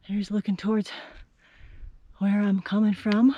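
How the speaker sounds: breathing hard between phrases; winded after the uphill climb. Real, not acted. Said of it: "Sorry, catching my breath".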